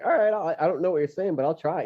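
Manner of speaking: game but lost; unsure girlfriend voice. Retold or imitated. Voicing girlfriend trying.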